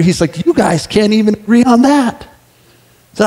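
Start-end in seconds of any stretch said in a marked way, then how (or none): 0.4-2.2 retold anger. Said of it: "afterwards he was so angry".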